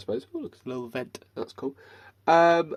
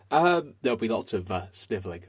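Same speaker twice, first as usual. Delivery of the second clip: stuffy blocked-nose voice; 2 semitones lower than usual. Real, not acted. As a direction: talk through a blocked nose from hay fever. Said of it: "I can't breathe out of my nose".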